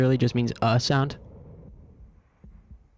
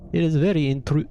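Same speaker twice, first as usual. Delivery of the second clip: put-on playful higher-pitched Russian accent; 4 semitones higher than usual. Trying out a foreign guy, mock Russian accent. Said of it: "maybe Russian".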